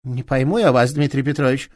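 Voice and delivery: change tack and play innocent; woman suddenly softening toward the inspector; a different tone. Acted. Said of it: "совсем другим тоном".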